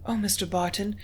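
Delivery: a touch of alarm, pleading; understated worried plea; anxious cry. Acted. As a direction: beg him not to, mildly distressed. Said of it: "she cried".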